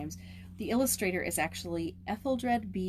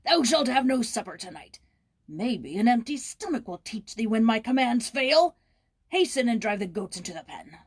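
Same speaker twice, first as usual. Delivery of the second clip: put-on loud, higher, angry bellow at the boy; gruff bellowing caretaker; 4 semitones higher, 7 dB louder than usual. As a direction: roar at the lazy boy from down the lane.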